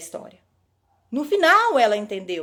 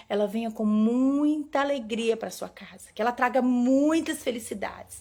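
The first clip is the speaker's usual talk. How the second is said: heartfelt wish; 2 semitones higher than usual. Retold or imitated. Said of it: "com toda a força do meu coração".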